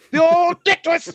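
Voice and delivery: loud, high, slow mock holler; drunken yelling. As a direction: bellow it with OLD held long. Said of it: "He's yelling at the octagon".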